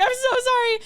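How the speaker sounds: high, loud gushing sorry; exaggerated apology. To a fan at a meet-up, hammed-up high apology. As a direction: pitch the apology way up and gush. Fans insist, she over-apologizes.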